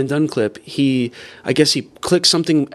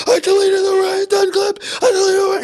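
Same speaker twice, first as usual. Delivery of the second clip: hysterical wail. Retold or imitated. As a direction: wail it like he is losing his mind. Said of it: "He's just losing his fucking mind".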